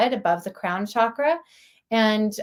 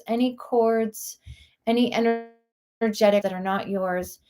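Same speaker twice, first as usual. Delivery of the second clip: guided meditation. Real, not acted. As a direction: guide listeners inward, lingering on words with long pauses.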